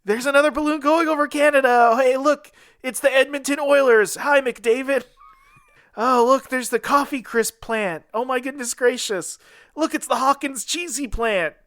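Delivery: gushing, high-pitched sightseer; wonderstruck balloonist. Acted. Acting Spider drifting over Canada.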